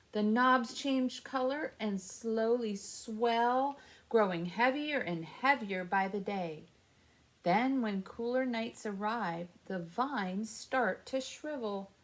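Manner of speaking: gentle storybook reading; reading to children. Acted. Reads picture book to kids.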